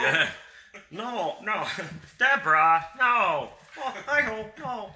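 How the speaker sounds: high, laughing protest; laughing no through giggles. Real, not acted. Cracking up at the joke.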